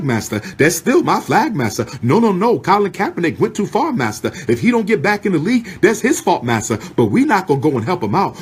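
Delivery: a lightly voiced servant eager to please massa; mock a groveling yes-man with a light touch; mocking subservient servant. Mock servant reassures massa about the flag, lightly voiced. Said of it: "tells the white man, listen".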